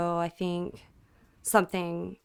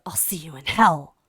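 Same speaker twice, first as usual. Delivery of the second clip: monotone; 4 semitones lower, 7 dB louder than usual. Retold or imitated. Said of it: "so monotone the whole time".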